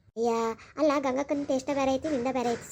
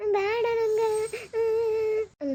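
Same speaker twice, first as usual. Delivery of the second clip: tearful refusal, voice a little raised; crying child; 4 semitones higher, much slower than usual. Acted. Lost girl at the fair refusing food, crying. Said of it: "ಹುಡುಗಿ ಅಳಾಕತ್ತೈತಿ".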